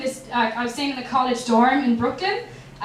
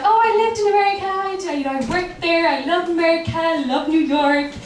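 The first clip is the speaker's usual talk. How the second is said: sing-song gushing; 3 semitones higher, faster than usual. Retold or imitated. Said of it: "And I was all like".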